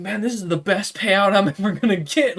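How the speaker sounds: gleeful imp voice. Acted. Imp gloating in thought.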